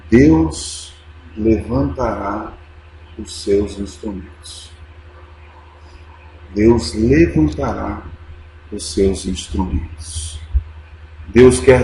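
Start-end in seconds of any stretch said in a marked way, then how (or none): 0.1-4.7 low, measured acted answer; slow solemn assurance, falling away at the end; solemn reply. Dying missionary answering his desperate sister, solemn and measured. 6.5-10.4 slow, low, weighty repeat; measured quoted assurance, dropping lower to close; solemn reply. Retold or imitated. Preacher repeating the dying missionary's answer, solemn and slow.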